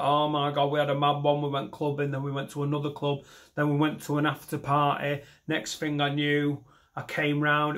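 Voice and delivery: lightly put-on Mancunian accent. Clubber recounting a wild night, Mancunian accent. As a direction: reel it off in Mancunian. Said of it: "that was my Mancunian accent".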